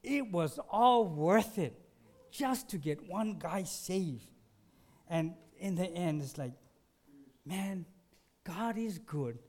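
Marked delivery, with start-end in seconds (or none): 0.0-4.3 slow, louder, exultant; a slow, glad praise to the Lord; joyful realization. Retold or imitated. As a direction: savor it like a prayer answered. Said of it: "he's like".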